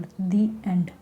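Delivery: "the" said as dee in "the end"; the pronounced dee. Shown as a demonstration. Teacher models "the end" again for students. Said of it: "दी pronounce करते हैं हम यहाँ पर".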